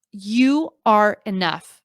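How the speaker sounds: slow, tender reassurance; slow, sincere. Shown as a demonstration. Telling struggling creators they are enough, slow and tender. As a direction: let each word land slowly. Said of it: "I just need to say that one more time".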